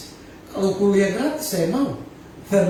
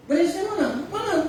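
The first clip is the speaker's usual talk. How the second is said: mock surprise; 10 semitones higher than usual. Pastor questions the enrollment.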